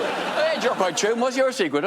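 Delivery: high-pitched party chit-chat; chirpy small talker. Acted. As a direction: open small talk with eager interest. Acted chirpy small talk at party.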